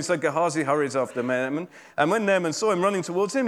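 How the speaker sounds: normal talking voice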